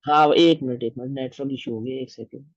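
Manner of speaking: choppy, fading call audio; glitchy robotic call. Real, not acted. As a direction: voice breaking up on a bad network. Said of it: "आवाज cut रही है बहुत।". (नेटवर्क में कटती आवाज़)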